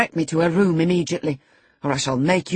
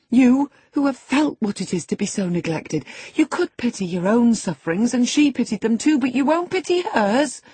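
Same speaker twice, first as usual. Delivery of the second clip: high, loud, mounting indignation; impassioned scolding; 9 semitones higher, 5 dB louder than usual. A narrator's reading. Housekeeper berates the selfish boy for lacking pity, outraged. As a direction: shame him, building to an outraged peak.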